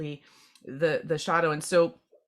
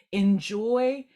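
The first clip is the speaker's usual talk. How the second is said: higher, louder, giggly "enjoy"; laughing enjoy; 5 semitones higher, 5 dB louder than usual. Retold or imitated. Reader laughingly voicing the spirits, "enjoy" said higher and louder. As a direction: toss off "enjoy" with a delighted laugh. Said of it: "but it's like".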